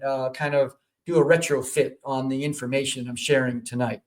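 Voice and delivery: ordinary talk, nothing marked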